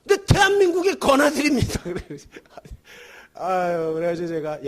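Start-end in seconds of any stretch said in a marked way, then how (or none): 0.0-1.8 a light imitation of a flustered soldier, higher. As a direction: blurt it out, caught off guard. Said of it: "이렇게 당황하더니".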